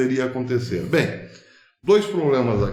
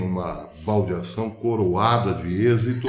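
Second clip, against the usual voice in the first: laughing; 5 semitones lower than usual. Real, not acted. Joking about the segment break.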